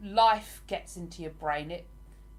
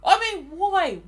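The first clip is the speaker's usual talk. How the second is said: higher, louder Australian greeting; Australian accent; 8 semitones higher, 9 dB louder, slower than usual. Retold or imitated. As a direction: punch out an Australian hello. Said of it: "the way the Australians say g'day".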